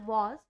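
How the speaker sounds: वॉज ending in a voiced z; z sound in was. Shown as a demonstration. Teacher models वॉज for students with a z ending. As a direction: say वॉज with a buzzing z. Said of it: "हम उसको वॉज बोलते हैं".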